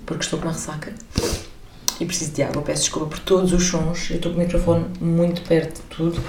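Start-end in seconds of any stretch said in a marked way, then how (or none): 2.0-6.2 hoarse, rough hangover voice; croaky morning-after voice; hungover voice. Real, not acted. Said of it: "com esta voz de bagaço".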